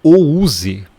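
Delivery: "o use" sounded out letter by letter; deliberately wrong "o use", loudly read as written; read as spelled. Shown as a demonstration. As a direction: split "house" into "o use", Portuguese spelling sounds. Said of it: "o que tá escrito é".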